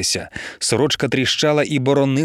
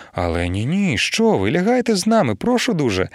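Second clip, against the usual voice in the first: courteous; 5 semitones higher than usual. Acted. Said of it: "гречно погодився пан Цімерман".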